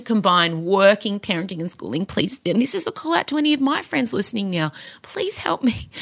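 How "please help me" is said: desperate breathy plea; whisper. Pretend. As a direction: whisper it like a secret cry for help. Pleading whisper to friends.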